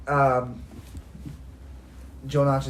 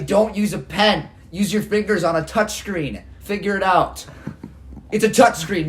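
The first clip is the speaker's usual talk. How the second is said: raised, lecturing voice; mock scolding; 5 semitones higher, 4 dB louder than usual. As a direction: scold like a bossy tech snob. Mocking scolding.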